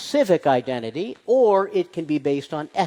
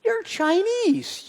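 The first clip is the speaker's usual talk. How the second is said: mock gatekeeper; slower than usual. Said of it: "No one's gonna say".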